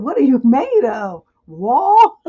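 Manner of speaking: hammed-up incredulous shout; retold yell. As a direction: yell it, tipping into laughter. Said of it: "I yelled".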